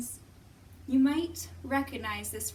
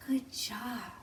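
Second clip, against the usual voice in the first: whispered praise. Real, not acted. Praises kids softly.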